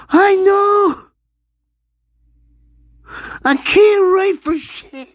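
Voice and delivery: squeaky high-pitched rant. Acted. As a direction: go up into a squeaky falsetto.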